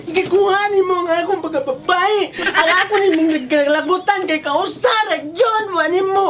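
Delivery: tearful, wailing accusation; tearful complaint. Acted. Woman telling what was done to her, tearful. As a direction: pour out the grievance tearfully. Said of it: "Ganina ra yun taon ni siya naghilak".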